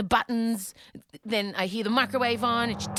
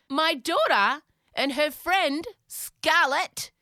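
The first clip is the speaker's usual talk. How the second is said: outraged disbelief; 7 semitones higher, 5 dB louder, much slower than usual. Retold or imitated. Outraged discovery reveal.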